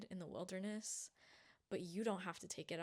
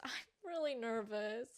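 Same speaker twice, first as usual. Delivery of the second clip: laughing through nerves; nervous laugh; 3 semitones higher than usual. Real, not acted.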